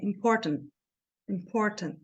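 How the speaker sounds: "Important" with no final T heard; "Important" ending on the N, T unreleased; T dropped. Shown as a demonstration. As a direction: leave the last T of "Important" silent. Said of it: "deixei aqui ele sem".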